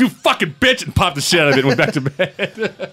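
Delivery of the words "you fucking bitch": high-pitched mock fury at the culprit; laughing-edged annoyed outburst; retold anger. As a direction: curse it out in comic exasperation. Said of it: "I was so pissed".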